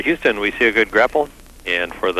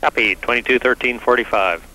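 astronaut radio; 3 semitones higher than usual. Real, not acted. Mission control reads back.

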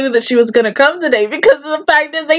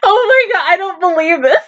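laughing disbelief; 2 semitones higher than usual. Real, not acted.

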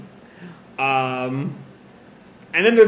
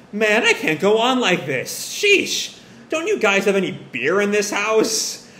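exasperated; 5 semitones higher than usual. Acted. Mom lounging, demanding beer.

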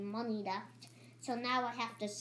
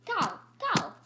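pet's cry; 9 semitones higher, 4 dB louder than usual. Acted. Pet cupcake makes its cry.

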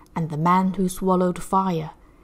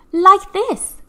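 much higher, loud cheerful call; acrobat crying out; 12 semitones higher, 9 dB louder than usual. Acted. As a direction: show off eagerly. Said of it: "cried Annie the acrobat".

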